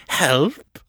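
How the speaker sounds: whispered, scornful echo; mocking whisper. Fisher mocking Seffi's cry for help, whispered. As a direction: toss her word back in scorn.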